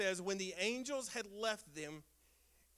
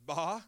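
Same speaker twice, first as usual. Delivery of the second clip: sheep bleat; 6 semitones lower than usual. Retold or imitated. Imitating sheep after shepherd joke.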